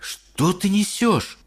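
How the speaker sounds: drawn-out disbelieving mum; mother not believing; slow, puzzled mother. A narrator's reading. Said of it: "спросила миссис Бакет". (недоумевающая мама)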